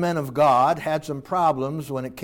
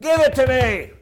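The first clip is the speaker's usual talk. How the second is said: polite son asking; 6 semitones higher, slower than usual. Acted. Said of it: "He doesn't even say".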